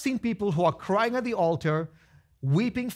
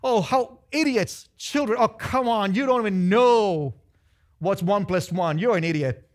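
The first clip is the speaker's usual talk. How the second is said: mocking arrogant kid; 3 semitones higher, 5 dB louder than usual. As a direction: taunt the little ones. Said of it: "so you go beat up everybody in kindergarten".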